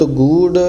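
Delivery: ਗੂੜ slow, with a weighted long vowel; slightly heavy pronunciation. Shown as a demonstration. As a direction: lean a little on ਗੂੜ. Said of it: "ਥੋੜ੍ਹਾ ਜਿਹਾ ਭਾਰਾ ਕਰਕੇ ਬੋਲਣਾ".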